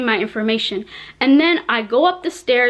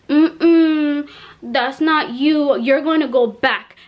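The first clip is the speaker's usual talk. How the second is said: dismissive officer; much slower than usual. Retold or imitated. Officer rejecting her passport photo.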